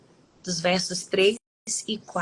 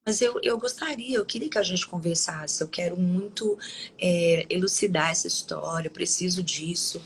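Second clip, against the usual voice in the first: composed, unhurried request, re-enacted; calm, tranquil tone. Asking coworker to talk and clear up the story, calmly. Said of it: "nesse tom, nessa tranquilidade".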